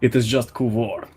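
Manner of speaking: lightly voiced Russian warrior, proud; a hint of a Russian accent, haughty hunter; mild Russian accent, disdainful Draken. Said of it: "I'll just do a Russian accent".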